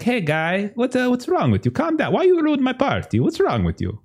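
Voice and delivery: high, fussy pleading voice; party host begging the goat to stop; flustered host. Acted. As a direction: whine at the goat to calm down. Fernando scolds the goat.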